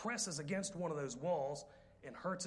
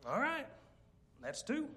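dry husband warning; 9 semitones higher than usual. Retold or imitated. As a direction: count it off like a calm threat. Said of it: "he said".

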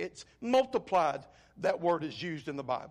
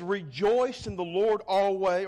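Rejoice hit firmly and louder; stress on Rejoice; 5 dB louder than usual. Retold or imitated. Preacher quoting Paul to the congregation, emphatic on Rejoice. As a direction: lean hard on the word Rejoice. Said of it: "Paul places a double emphasis".

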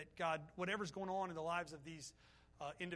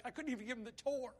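choked up; 5 semitones higher than usual. Real, not acted. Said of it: "and I wept".

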